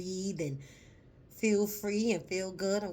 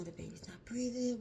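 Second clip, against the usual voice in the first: hushed worried; 5 semitones higher, 3 dB quieter than usual. Retold or imitated. Retold nurses' worried words.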